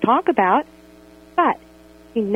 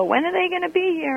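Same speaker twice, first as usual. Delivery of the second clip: a hint of a whiny child, higher; impatient little girl; 8 semitones higher than usual. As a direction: ask like an eager kid at the window. Voicing impatient young daughter.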